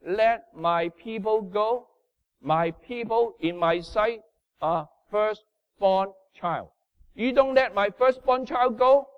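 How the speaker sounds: slow, measured divine command; God's warning to Pharaoh. Acted. Preacher voicing God warning Pharaoh through Moses, slow and solemn. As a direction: deliver God's ultimatum slowly and solemnly. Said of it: "He won't say that in Exodus".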